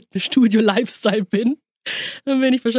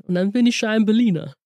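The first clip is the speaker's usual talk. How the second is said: put-on light American accent in German. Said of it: "Mit leicht amerikanischem Akzent".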